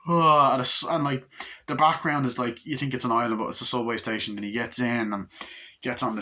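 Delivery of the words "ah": loud mock yawn; put-on yawning sound; imitated yawn. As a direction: yawn big and open-mouthed. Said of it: "fucking yawning".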